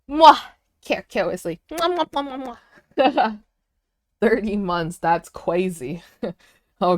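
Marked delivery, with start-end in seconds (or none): 0.1-3.4 between kisses. Real, not acted. Blowing kisses to a viewer.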